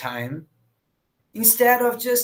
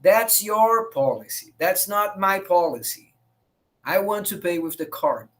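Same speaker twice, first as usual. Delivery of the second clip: calm, measured retort imitating a customer; calm firmness. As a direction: stand your ground without raising your voice. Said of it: "he just very calmly said".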